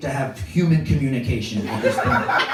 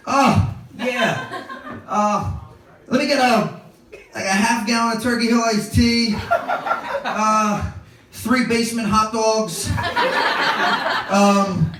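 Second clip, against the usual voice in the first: stoned eager order; 5 semitones higher than usual. Retold or imitated.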